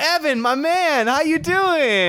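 high squeaky fake voice; squeaky put-on voice. Greeting old neighbour, squeaky put-on voice.

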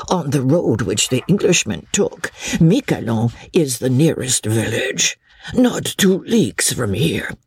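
lightly voiced old peddler; helpful old peddler. Old peddler telling Chauvelin the nearest village, helpful. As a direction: explain it as a humble villager, lifting at the end.

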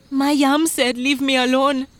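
high, urgent retelling; worked-up farmer's complaint; frightened farmer. Acted. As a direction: blurt it out pitched high. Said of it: "the farmer said".

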